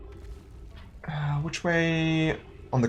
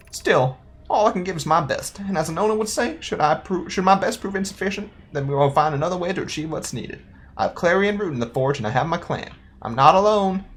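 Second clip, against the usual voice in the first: higher-pitched character voice; earnest young apprentice; 5 semitones higher than usual. Acted. Player voices an apprentice's log about a missing mentor, higher and wistful. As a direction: read it as an unsure apprentice, pitched up.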